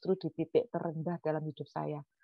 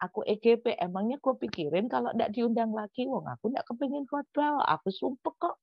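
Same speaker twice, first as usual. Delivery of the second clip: higher-pitched, couldn't-care-less grumble; dismissive inner voice; 4 semitones higher than usual. Retold or imitated. Preacher privately shrugs off invitations, mock dismissive grumble. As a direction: re-enact a defiant shrug in words. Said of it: "Saya dalam hati bilang begini".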